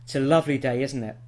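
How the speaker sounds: "isn't it" drops at the end; falling tag intonation. Shown as a demonstration. Starting a conversation with someone, "isn't it" falling. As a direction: let "isn't it" fall, expecting agreement. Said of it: "So this suggests certainty".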